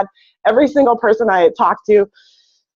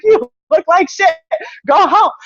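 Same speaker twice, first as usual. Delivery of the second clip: higher, slow, mock exasperated; blunt coworkers; 10 semitones higher than usual. Coworkers telling sick Casey she looks awful, slow mock exasperation. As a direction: drag it out like a fed-up coworker. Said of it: "They're like".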